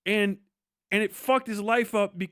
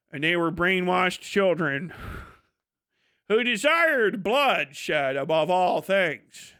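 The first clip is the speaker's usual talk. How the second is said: lightly put-on solemn narration, slowing down; slow to a mock-grave pronouncement at the end; mocked video essayist; 3 semitones lower, slower than usual. Critic judging brainwashed soldiers, mildly mock-solemn narration. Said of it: "instead of just going like".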